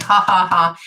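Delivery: spoken mock laugh; retold chuckle, put on; imitated laughing. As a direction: voice the laugh as separate syllables. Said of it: "laughing about it".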